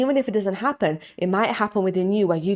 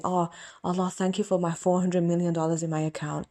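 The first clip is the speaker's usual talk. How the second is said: grateful prayer. Shown as a demonstration. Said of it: "This is how I pray to Allah".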